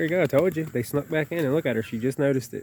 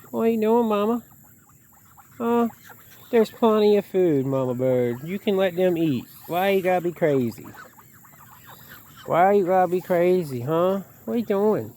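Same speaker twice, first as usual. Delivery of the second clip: high, louder, teasing scold; scolding pet talk; 7 semitones higher, 3 dB louder than usual. Real, not acted. Telling the mama goose off for hogging food, high and louder. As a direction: chide the bird like a naughty pet.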